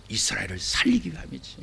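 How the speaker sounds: soft unvoiced whisper; whispered answer. Shown as a demonstration. Preacher revealing God's purpose in a whisper.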